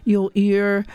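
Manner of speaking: rough, failing voice after coughing; hoarse voice giving out. Real, not acted. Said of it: "Sorry about my voice".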